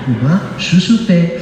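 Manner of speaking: slow, joking Portuguese-accented French. Shown as a demonstration. Preacher jokingly redoing his question, Portuguese accent. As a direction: put on a playful Portuguese accent, drawn out. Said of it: "J'allais le faire avec l'accent portugais".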